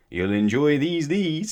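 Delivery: loud, high, smiling butcher. A narrator's reading. Butcher handing sausages to the twins, smiling. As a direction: say it with a big smile, climbing on the echo. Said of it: "smiled Mister Double Chop".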